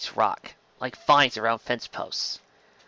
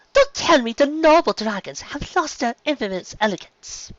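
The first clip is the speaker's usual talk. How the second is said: higher-pitched, ladylike scolding; haughty chastising; 4 semitones higher than usual. Acted. Pony chastising the landing dragons, haughty high scolding. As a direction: chastise with an air of authority. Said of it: "Verity chastised the dragons loudly".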